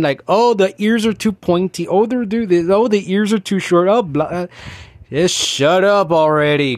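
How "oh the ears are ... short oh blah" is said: higher, nagging whine of a fussy collector; mock the fussy buyers with a whine; whiny mock complaint. Mocking collectors who buy and complain, in a whiny higher voice. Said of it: "They buy 'em and complain".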